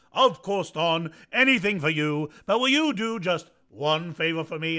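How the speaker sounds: a hint of an old horse agreeing gladly; lightly voiced horse. Horse answering Don, loud and hearty.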